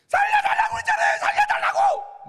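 high, loud shout with a laugh; defiant yell. Retold or imitated. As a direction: laugh while hollering in mock outrage. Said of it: "막 이렇게 대드는 거예요". (웃음 섞인 높고 큰 항의)

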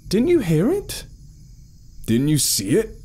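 high-pitched alarmed questions, short of a shout; almost yelling. A narrator's reading. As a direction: push the pitch up as if nearly yelling. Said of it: "almost yelling".

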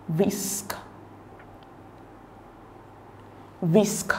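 "risk" said alone, with its opening R sounded; initial R pronounced. Shown as a demonstration. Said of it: "the R is at the beginning of the word".

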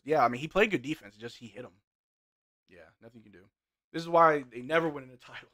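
normal talking voice

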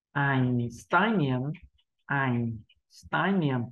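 "Einstein, niềm" slowly, syllable by syllable; slow practice reading. Shown as a demonstration. Teacher telling learners not to rush, slow "Einstein, niềm". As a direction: take "Einstein, niềm" unhurriedly, drawing out each part. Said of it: "Chúng ta hãy đọc chậm như vậy".

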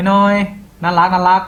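high, drawn-out cute voice; cutesy. Shown as a demonstration. Tutor describing tiny light syllables, cutesy high voice.

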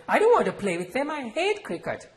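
put-on loud, high, fast childish outcry; protesting cry. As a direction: cry out, hating the idea. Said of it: "and I too cried".

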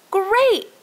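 high happy cheer. A narrator's reading. Children cheering at Olivia's offer, high and thrilled. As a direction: cheer like excited kids. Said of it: "cheered the children".

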